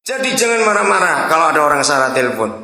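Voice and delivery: ordinary talk, nothing marked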